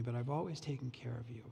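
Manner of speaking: hushed near-whisper. Retold or imitated. Father assuring the older son he was cared for, whispered. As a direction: breathe it out softly as a plea.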